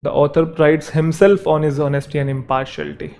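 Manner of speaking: each word read out slowly for the class; slow dictation. Shown as a demonstration. Teacher dictating the example sentence slowly to students. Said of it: "तो यहाँ पे आएगा himself".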